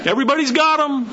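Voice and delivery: fast laughing punchline; chuckling punchline; laughing repeat. Real, not acted.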